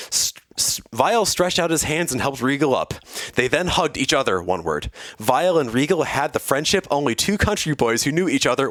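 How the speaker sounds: animated read-aloud of an action story; story narration. A narrator's reading. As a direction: narrate the battle in measured, lively phrases. Reads fan fiction aloud.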